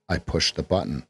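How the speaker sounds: I hit first, then falling; stress on I. Shown as a demonstration. Coach shows stress on I. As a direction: punch I. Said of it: "we could put an emphasis on any syllable".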